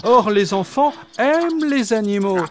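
the dog dreams of a happy world; talking dog. Acted. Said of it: "répondit Jean Waf". (voix de chien rêveuse, plus aiguë)

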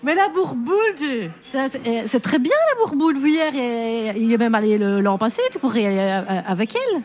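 put-on Pierre insistant, voix relevée, accent bruxellois; Pierre Bonnard joué. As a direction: vantez la cure à votre femme qui refuse. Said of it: "je fais Pierre Bonnard". (Pierre Bonnard, voix plus haute, accent bruxellois)

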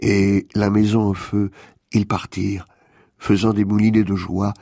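composed storytelling from the page; poetic narration. Acted. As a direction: recite the tale evenly, letting the pitch settle down at the end. Reads out a quoted poetic passage.

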